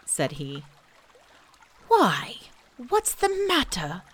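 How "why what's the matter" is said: higher, puzzled bear question; concerned Pooh. A narrator's reading. Pooh asking Eeyore what is wrong, higher and concerned. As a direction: ask with friendly worry.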